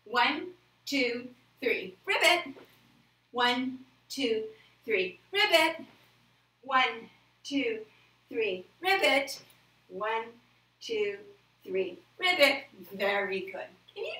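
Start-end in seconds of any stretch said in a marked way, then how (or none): 0.0-2.5 put-on energetic jump count for the kids; excited frog jump. Shown as a demonstration. Kids' yoga frog jump count. 3.3-12.6 put-on energetic jump count for the kids; excited frog jump. Shown as a demonstration. Repeated frog jumps.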